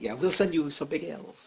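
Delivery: soft, deliberately bad mock French accent.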